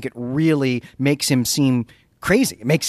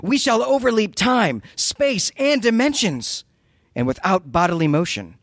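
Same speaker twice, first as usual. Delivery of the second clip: mad scientist monologue; 5 semitones higher than usual. Acted. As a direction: declaim it like a raving genius. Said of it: "solid reading of a Lovecraft mad scientist monologue".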